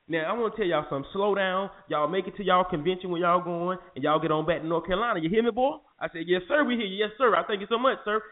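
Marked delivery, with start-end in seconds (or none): 0.1-5.8 lightly voiced stern country cop; a touch of a drawling trooper lecturing the boys; imitating the Southern cop. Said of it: "this is how he was talking". 6.3-8.2 mock-humble, eager to please; lightly played scared driver bowing to the cop; overly deferential yes sir. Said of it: "sound like a slave when you tell a story".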